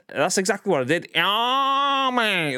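put-on Salford accent. Streamer answering a chat request with a light Salford accent. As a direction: toss it off in a hint of a Salford accent. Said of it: "you should be able to do a Salford accent".

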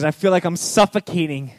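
high, loud overwhelmed plea; suffocating clay. Acted. Clay pleading with the potter, high and loud. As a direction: cry out that it is too much.

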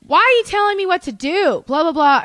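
high, loud mock ranting; hammed-up crazy yelling; imitated angry outburst. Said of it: "he just gets so crazy".

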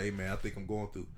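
low, soft acted confession; hushed confiding. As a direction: confide quietly, as if to a friend. Acts confiding in friend in car.

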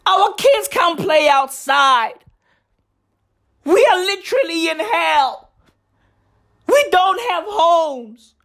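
desperate Californians shouting for help; pleading shout. Retold or imitated. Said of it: "They be like".

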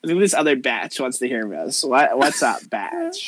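lightly voiced snotty Valley girl; a hint of dismissive Valley girl. Valley girl turning to another girl, snotty and offhand. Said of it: "you're gonna talk to the Valley girls".

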